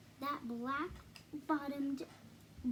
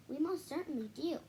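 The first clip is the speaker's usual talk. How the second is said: piped; 3 semitones higher than usual. Acted. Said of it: "piped the voice".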